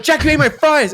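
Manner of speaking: high, shrill mock outrage; angry sister. Sister freaking out over stolen fries, high and angry. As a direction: shriek it like a furious kid sister. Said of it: "Or like".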